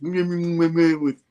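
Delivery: playful mushy noises; schmoozy babble. Retold or imitated. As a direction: coo wordless sweet nothings. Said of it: "getting all schmoozy".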